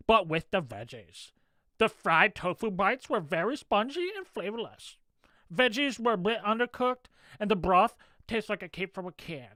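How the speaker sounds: put-on lightly whiny valley-girl voice; a hint of a whiny cartoon princess; Lumpy Space Princess voice. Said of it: "you're nailing Lumpy Space Princess's voice".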